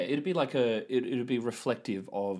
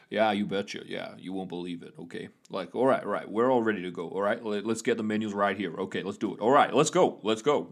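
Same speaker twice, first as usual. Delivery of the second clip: put-on East Coast accent; 3 semitones lower than usual. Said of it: "outside of New York accent".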